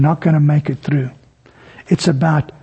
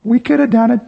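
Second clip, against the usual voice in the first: smug boast; 2 semitones higher than usual. Retold or imitated. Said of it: "What's Peter, James, and John thinking".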